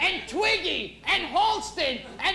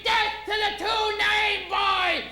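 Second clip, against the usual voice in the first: drawn-out mob chant; slow, theatrical death chant; mock screaming; 3 semitones higher, slower than usual. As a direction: stretch it out as a hammed-up war cry.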